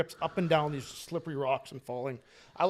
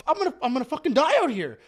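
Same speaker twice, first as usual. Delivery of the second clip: high, whiny mock despair; retold panicked complaint, pitched up; 9 semitones higher, 3 dB louder than usual. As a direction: wail it in comic fear. Acted panic in retold scene.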